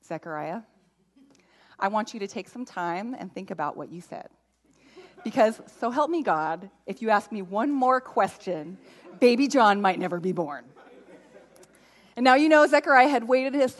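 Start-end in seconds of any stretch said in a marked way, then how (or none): 0.0-10.6 pseudo-calm scolding parent; a hint of a stern parent's calm; fake calm angry parent. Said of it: "pseudo-calm parent voice".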